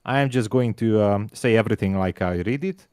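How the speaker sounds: light Hungarian accent, words read as spelt; a hint of heavy Hungarian accent; mild Hungarian accent for fun; mock Hungarian accent. Shown as a demonstration. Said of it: "let me try this".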